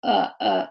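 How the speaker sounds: short dark L hums on "う"; final L sound. Shown as a demonstration. Teacher isolating the ending of until, dark L. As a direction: voice "う" with tongue tip up behind teeth. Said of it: "っていう音で終わっていきます".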